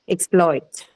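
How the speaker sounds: "exploit" stressed on the second syllable, as a verb. Shown as a demonstration. Teacher shows students the verb form, second syllable of "exploit" stressed. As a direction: put the weight on the end of "exploit": ex-PLOIT. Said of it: "stress is on the second syllable".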